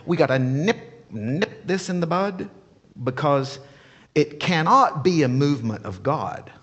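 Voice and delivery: lightly voiced smug official; mild mock smug leader. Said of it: "I can imagine him saying".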